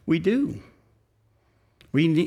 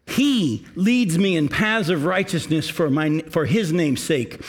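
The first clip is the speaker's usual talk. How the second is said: slow, measured reading of the psalm; slow scripture reading; slower than usual. Acted. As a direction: read each word slowly, with reverence. Reads the psalm aloud.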